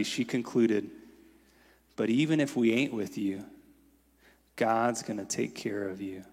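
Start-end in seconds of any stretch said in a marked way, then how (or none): 1.9-6.2 calm, sure and soft, slowing at the end; quiet certainty. Retold or imitated. Elderly church mother comforting Martin Luther King, quietly certain. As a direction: reassure him with quiet confidence. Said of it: "with a countenance beaming with quiet certainty".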